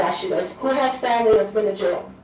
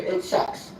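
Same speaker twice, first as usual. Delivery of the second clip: whispered; 5 dB quieter than usual. Real, not acted. Aside again, whispered.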